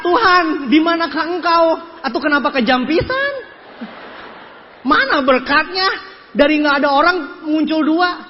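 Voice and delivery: mock desperate plea. Acted complaint prayer to God.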